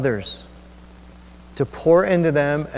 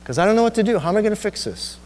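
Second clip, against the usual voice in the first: higher-pitched, exasperated retelling; irritated; 7 semitones higher, much faster than usual. Retold or imitated. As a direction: retell it with mild irritation, voice lifted. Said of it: "I'm irritated".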